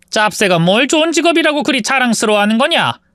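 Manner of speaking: mock her pride; sneering mother-in-law. A narrator's reading.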